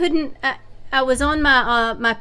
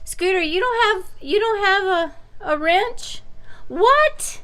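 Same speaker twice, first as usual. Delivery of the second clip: talking to a pet; 10 semitones higher than usual. Real, not acted. Teasing the dog about wrenches.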